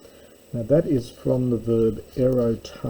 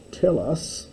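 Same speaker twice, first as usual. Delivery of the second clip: demanding; 5 semitones higher than usual. Pretend. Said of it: "you have to understand".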